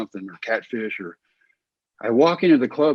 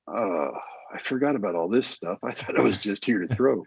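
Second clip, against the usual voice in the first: mock dismay; 2 semitones lower, 6 dB quieter than usual. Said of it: "I'm like".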